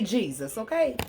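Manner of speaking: high excited church call for a witness; rally the room like a preacher; preaching call. Real, not acted.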